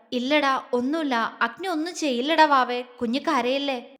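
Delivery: softly soothing, slowing at the end; soft and gentle. Acted. Husband calms his crying wife, gently and softly. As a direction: hush her like a crying child. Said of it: "പതിയെ പറഞ്ഞു".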